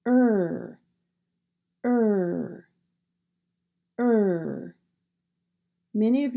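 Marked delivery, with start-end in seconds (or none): 0.1-4.8 "er" with lips rounded forward, no roll; r-colored vowel, tongue pulled back; English er sound. Shown as a demonstration. Teacher demonstrating the American R for learners. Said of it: "round it up slightly in the back and blow out".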